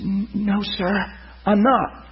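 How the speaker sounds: mildly imitated halting answer; imitating a man's stutter. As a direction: stumble softly into the first word, pausing between words. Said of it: "stopped stuttering".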